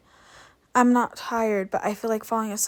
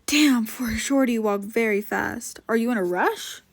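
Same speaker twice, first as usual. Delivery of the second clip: a touch of breathless huffing after a run; lightly winded, huffed teasing; huffing, out of breath; 4 dB louder than usual. Acted. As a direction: puff the words out like you just caught up. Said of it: "he huffed".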